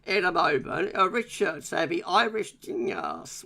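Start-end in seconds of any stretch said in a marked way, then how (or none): 1.9-3.4 slow, lightly put-on Irish accent; attempted Irish accent. Host reading a viewer's comment about his guest, attempted Irish accent. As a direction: have a half-hearted go at an Irish accent. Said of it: "with an Irish accent".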